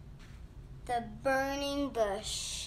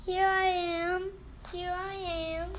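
slightly timid, higher-pitched answer; a touch of fear in a raised pitch; scared; 6 semitones higher than usual. A narrator's reading. Scared Moses answers the voice from the bush, mildly fearful. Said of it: "Moses was scared".

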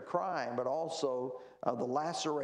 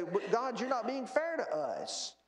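mildly protesting in a higher pitch; retold appeal; 8 semitones higher than usual. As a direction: imitate people pleading their case to God. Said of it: "they appeal to God".

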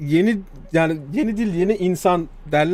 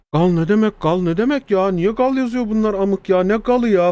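retold bafflement; 3 semitones higher than usual. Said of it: "ilk gördüğümde şey demiştim".

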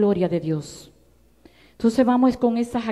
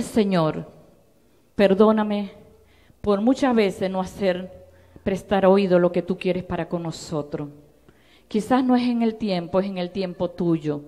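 tearful prayer; 4 semitones lower than usual. Retold or imitated. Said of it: "Y yo llorando".

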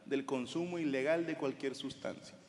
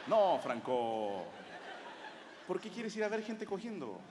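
disappointed; slower than usual. Retold or imitated. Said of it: "más así como decepcionados".

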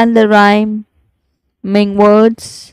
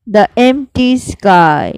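whispered line; slower than usual. Shown as a demonstration. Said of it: "I'll repeat".

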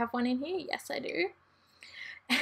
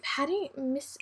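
whispering; 7 dB quieter than usual. Real, not acted. Puzzling over a word.

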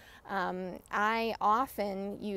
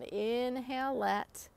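mantra demo. Shown as a demonstration. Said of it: "So it's just over and over again".

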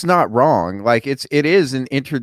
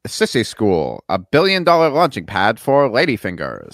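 put-on slow, lower old-time radio announcer voice; transatlantic radio voice; 4 semitones lower than usual. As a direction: read it like a 1940s radio host. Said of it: "Can you do, like, a trans-, transatlantic radio voice?".

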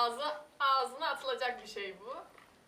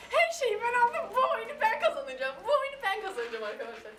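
determined; 8 semitones higher, 3 dB louder than usual. Real, not acted. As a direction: declare it with fire. Vows to win the game. (kararlı ve coşkulu)

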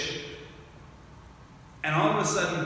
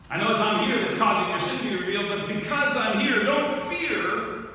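louder, fast, rising to a high don't fear; impassioned plea; 5 semitones higher, 4 dB louder than usual. Acted. Jesus urging Simon not to fear, impassioned. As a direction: press the promise home. Preacher voicing Jesus' reassurance.

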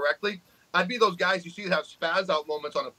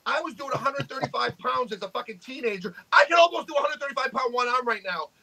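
imitated angry rant at an online troll, higher pitch, a cry in the voice, slowing down near the end; mock rant at troll; 4 semitones higher than usual. Telling off a YouTube troll who brags about curls, in a hammed-up angry rant. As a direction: tear into the troll in a mock tirade. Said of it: "I'm like".

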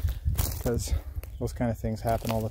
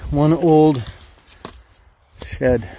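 excited; 3 semitones higher, 9 dB louder, much slower than usual. Real, not acted. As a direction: marvel at it loudly. Amazed at an old find.

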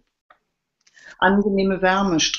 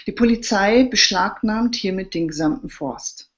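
mock-formal decree; official announcement; 3 semitones higher than usual. A narrator's reading. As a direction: proclaim it like an official notice. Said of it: "Ende der Durchsage".

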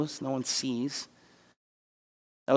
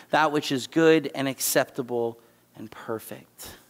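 proclaiming the verses louder, with weight; scripture reading; 3 dB louder than usual. Acted. Pastor reading Romans twelve to the congregation, loud and solemn. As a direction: read it out to the church like a proclamation.

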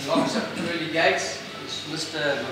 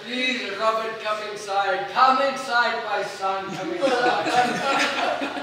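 higher, drawn-out sly welcome; welcoming devil; 5 semitones higher, slower than usual. Retold or imitated. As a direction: lure him in kindly.

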